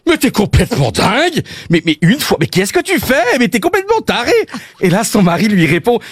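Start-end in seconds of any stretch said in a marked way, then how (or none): 0.1-4.3 femme qui hurle. Acted. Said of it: "elle hurle en voyant le carnage".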